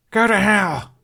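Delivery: high, loud snarl; furious shout. Acted. Hiccup shouting defiance at his jailer. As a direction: bark it back in a rage. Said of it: "he barked back".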